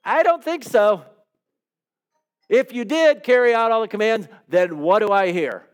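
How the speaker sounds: a prophet calling the bluff, lightly acted; skeptical Samuel. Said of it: "And Samuel's like".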